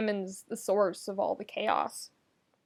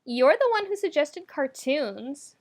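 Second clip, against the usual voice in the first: quick retort; 5 semitones higher than usual. Acted. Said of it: "with a quick".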